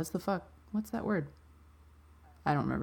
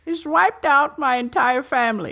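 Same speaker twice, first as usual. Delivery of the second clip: put-on very old man; 3 semitones higher than usual. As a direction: play a frail old professor. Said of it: "Can you be Professor Dicklecunt real quick".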